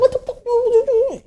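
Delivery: a rude yell instead of a nice ask; harsh demand; angry delivery. Shown as a demonstration. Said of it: "they're like".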